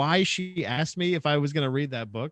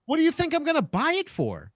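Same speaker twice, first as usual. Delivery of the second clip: mock sarcastic; 12 semitones higher than usual. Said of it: "And I was like".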